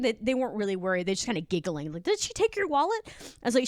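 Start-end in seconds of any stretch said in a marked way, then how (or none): 2.0-3.0 mock alarmed boss. Boss voiced, high pitch.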